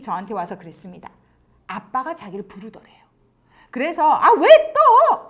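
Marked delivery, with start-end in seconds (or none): 4.1-5.3 loud, drawn-out annoyed whine, higher; irritated teen. Retold or imitated. Daughter answering her father's call, irritated and loud. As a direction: snap back like a fed-up teenager, slowly and loud. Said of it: "신경질적이잖아요".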